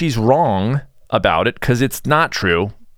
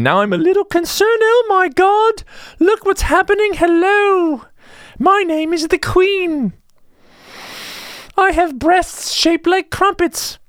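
high falsetto mock queen, slow and hammed-up; soy-feminized falsetto queen; slower than usual. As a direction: camp it up as a falsetto queen who just ate tofu. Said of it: "I don't wanna walk around sounding like that".

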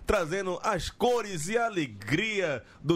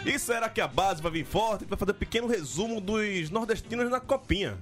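announcer read; 5 semitones higher than usual. Acted. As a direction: read the rundown like a host. Reads the show intro.

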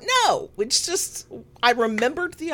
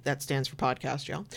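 ordinary talk

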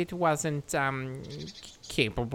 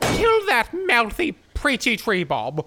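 high battle shout; 7 semitones higher, 5 dB louder than usual. Acted. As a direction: yell the order to attack. Urging attack on tree.

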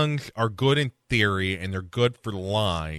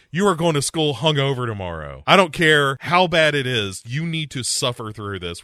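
stern dad; 4 semitones higher, 3 dB louder than usual. Retold or imitated. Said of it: "Dad is also like".

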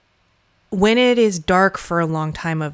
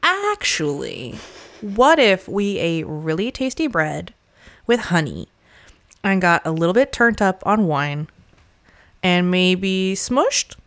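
Dionysus voice. Retold or imitated. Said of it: "Dionysus is there to say".

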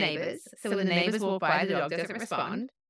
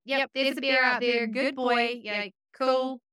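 soothing the dog; 5 semitones higher than usual. Retold or imitated. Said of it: "It's like".

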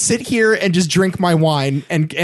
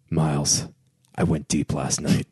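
smug boast; 13 semitones lower, 7 dB quieter than usual. Retold or imitated. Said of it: "he says to Paul Giamatti".

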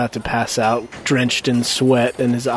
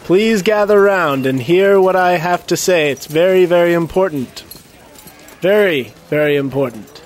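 town crier; 5 semitones higher than usual. Acted. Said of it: "speech on soapbox".

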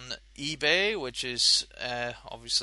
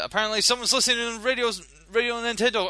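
fast, high, shouting mock outrage; 9 semitones higher, 6 dB louder, much faster than usual. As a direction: ham up the shocked fury. Mock outrage at Radio Nintendo.

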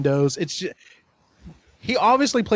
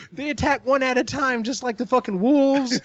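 high-pitched acted call to the guys; confident rallying cry, voice raised in pitch; 6 semitones higher than usual. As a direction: call out the discovery to your friends, pitched high. Acted realization, rallying his friends.

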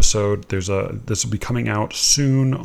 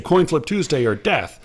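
sarcastic mock defiance; 4 semitones higher, 3 dB louder than usual. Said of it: "he was joining in this sarcastic tone of voice".

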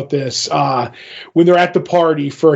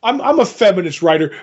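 scene; mocking quote; 3 semitones higher, faster than usual. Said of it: "mocking his self-description".

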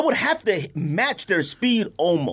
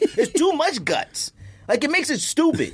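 laughing; 7 semitones higher than usual. Real, not acted. Laughing at the absurd stunt.

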